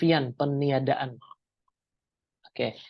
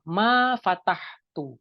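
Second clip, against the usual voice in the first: Ma sami'tu said slowly, word by word; teacher slowly modelling an Arabic phrase; slow demo; 3 semitones higher, much slower than usual. Shown as a demonstration. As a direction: spell out Ma sami'tu slowly for students to repeat. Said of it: "teacher demonstrating Arabic phrase".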